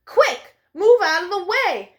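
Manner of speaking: loud hurried warning; calling out to cars ahead; urgent call. Acted. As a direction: shout it to clear the road.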